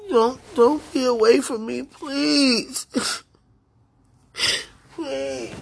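real tears, pleading not to be left; crying plea. Real, not acted. Crying to the one kept away from her, voice breaking. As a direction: voice breaking into sobs, begging.

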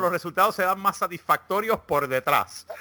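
light mock Castilian Spanish accent for a horoscope read; reading Leo's horoscope to friends in a hammed-up Spanish accent. Mock Spanish accent, Castilian lisp. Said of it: "el de Leo en el acento español".

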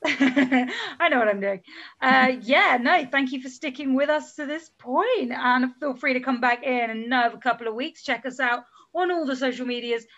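smooth podcast host sign-off; radio presenter voice. Pretend. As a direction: read it like a radio DJ. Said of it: "sounding like a radio presenter".

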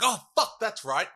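acted-out startled afterthought; sudden remembering. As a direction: blurt it as if just remembering something forgotten. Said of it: "He's like".

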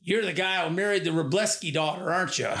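lightly imitated Southern farmer; Southern accent. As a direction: quote him with a touch of Southern accent. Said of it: "he does talk in a Southern accent".

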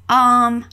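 drawn-out "um" before answering; hesitant thinking noise; thinking filler. Shown as a demonstration. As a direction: stall politely with a long "um". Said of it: "quando tá pensando em uma resposta".

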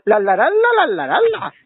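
lightly hummed imitation of the actor; mock singsong tune. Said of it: "utilizaba el tono".

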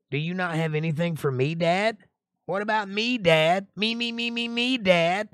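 high whiny me-me-me; mock groveling. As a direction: whine like a spoiled kid begging dad. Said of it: "goes a groveling".

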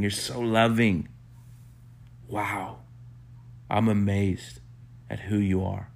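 gentle, reverent adoration with small pauses; awed praise. Acted. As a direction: murmur it as an intimate prayer of amazement. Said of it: "you'll just be like, "Wow".

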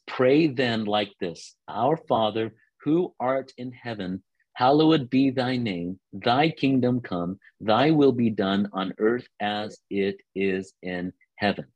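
slow, solemn recitation of the prayer; prayer reading. Acted. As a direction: read it reverently, like a prayer. Reads the Lord's Prayer aloud.

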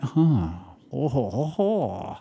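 drawn-out impressed "ooh-ho-ho"; stupore ammirato. Retold or imitated. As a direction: swoop up and down in awed reaction. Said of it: "this to me is where I went".

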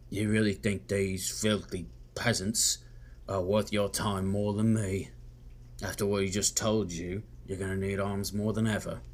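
lightly voiced disdainful nobleman; Mister Underwood. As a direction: sneer a little at rivals in character. Looks at you and says.

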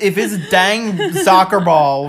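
put-on grumpy old man with a Tennessee twang, half-laughing. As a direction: play a cranky old neighbour yelling about kids. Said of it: "my old man voice sounds like I'm from Tennessee".

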